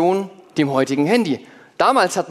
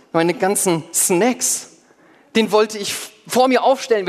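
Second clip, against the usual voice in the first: indignant complaint; 3 semitones higher than usual. Acted. Apostle complains about leaving bag.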